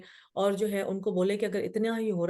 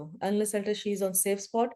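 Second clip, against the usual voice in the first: husband's calm advice; much slower than usual. Retold or imitated. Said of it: "میرے میاں نے کہا".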